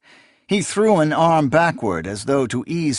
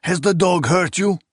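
barked; 7 semitones higher than usual. A narrator's reading. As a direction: bark the question. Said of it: "he barked as much as asked".

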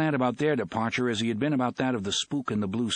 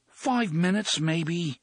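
dull; 7 semitones higher, much slower than usual. Acted. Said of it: "Fat Johnny said dully".

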